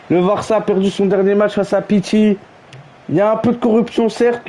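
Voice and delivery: mock TV match announcer welcoming viewers; mock commentator. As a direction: announce the match like a TV pundit, hamming it up.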